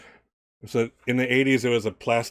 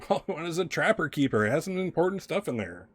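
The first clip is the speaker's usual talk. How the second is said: exasperated stepmother; 7 semitones higher than usual. Acted. Acted stepmother scolding the child.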